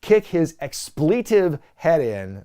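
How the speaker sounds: "kick his expletive head in" slow, with stress put on odd syllables; mock quote, slow and oddly stressed; wrong emphasis. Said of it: "The wrong emphasis on the wrong syllable".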